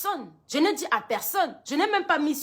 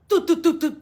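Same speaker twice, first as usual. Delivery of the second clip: knock imitation; 2 semitones higher, 3 dB louder than usual. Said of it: "Le genre de coq, coq là, c'était".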